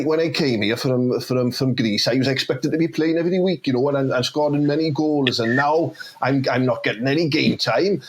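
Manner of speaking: put-on Welsh valleys accent, lightly done. Player complains to manager about the bench, in a Welsh accent. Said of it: "didn't realise this lad was from Wales".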